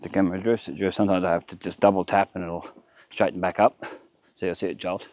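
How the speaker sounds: breathing hard between words; puffing from the heat; heavy breathing. Real, not acted. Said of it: "Sorry about the breathing noises".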